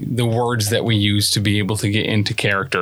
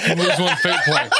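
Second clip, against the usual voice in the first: laughing ruling; 6 semitones higher than usual. Acted.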